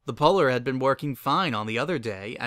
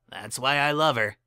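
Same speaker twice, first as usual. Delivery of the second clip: Lyra voice. Acted.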